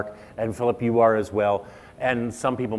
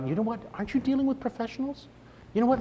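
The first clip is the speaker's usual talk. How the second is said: mock pushy networker; 11 semitones higher, 4 dB quieter, faster than usual. Mocking pushy networker line.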